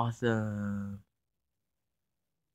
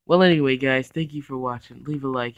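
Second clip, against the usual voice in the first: excited; 3 semitones higher, 8 dB louder than usual. Real, not acted. Switching to outro.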